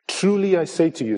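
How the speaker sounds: solemn emphatic Truly; with emphasis. Shown as a demonstration. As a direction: lean on Truly I say to you. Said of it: "so with emphasis".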